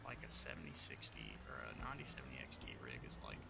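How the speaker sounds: hushed whisper. Real, not acted. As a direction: keep it down, people asleep. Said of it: "I'm whispering because".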